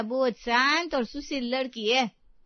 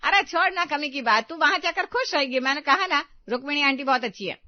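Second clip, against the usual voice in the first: loud, higher, domineering mother-in-law; bossy scolding; 4 semitones higher, 6 dB louder than usual. Acted. Mother-in-law loudly overruling her tearful daughter-in-law. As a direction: shut her down and insist.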